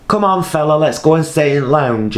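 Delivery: high, lilting gentle coaxing; being himself, effeminate. Retold or imitated. Carer to man with dementia, high effeminate coaxing. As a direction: coax him along in a high, effeminate voice. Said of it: "So I'd been myself".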